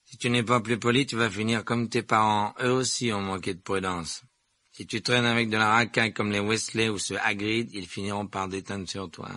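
lightly voiced bully, talking down; threatening Malfoy. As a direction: press the threat, strong then easing off. Narrator voices Malfoy threatening Harry.

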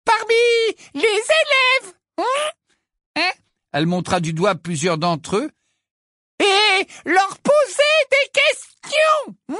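very high, slow patronising voice; high slow sugary condescension; slow, resonant Umbridge. A narrator's reading. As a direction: spell it out to a child. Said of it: "de sa voix lente et sonore".

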